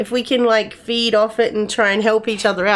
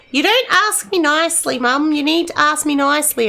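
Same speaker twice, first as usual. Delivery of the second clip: imitating daughter; 7 semitones higher than usual. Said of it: "she'd be like".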